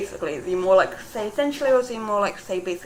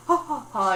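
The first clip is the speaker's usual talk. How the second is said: a mild imitation of a stereotypical British posh laugh, ha ha ha; lightly mock the upper-class laugh; understated posh "ha, ha, ha"; 3 semitones higher than usual. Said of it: "this really posh laugh".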